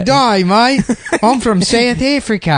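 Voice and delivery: high, very slow mock South African accent; mocking a friend's dad, slow high fake South African accent; bad South African accent. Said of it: "That's not how South Africans sound".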